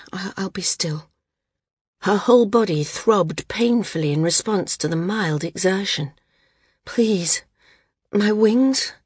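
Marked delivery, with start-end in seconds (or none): 0.1-1.1 unvoiced, softer whisper. A narrator's reading. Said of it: "she whispered". 6.8-8.9 breathy whisper, rising into a higher question; whispered plea. A narrator's reading. Whispered plea after exertion.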